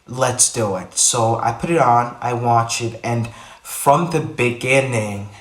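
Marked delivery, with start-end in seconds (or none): 3.0-3.3 odd delivery. Real, not acted. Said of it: "wait, why did I say it like that?". 3.6-5.3 slow, strangely stretched phrase; odd drawn-out delivery. Real, not acted. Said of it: "wait, why did I say it like that?".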